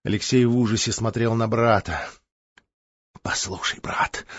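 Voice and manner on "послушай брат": hushed plea. Acted. Dying brother's hushed plea.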